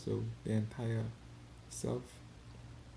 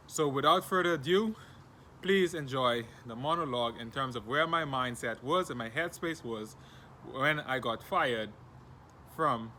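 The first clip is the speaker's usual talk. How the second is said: show host intro; 3 semitones higher, 4 dB louder than usual. Acted. Introduces the attached monologue.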